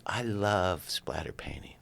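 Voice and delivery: put-on slow, whispered confession of a small girl; imitating a shy little girl, slowly; hushed kid's voice. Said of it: "And she's like".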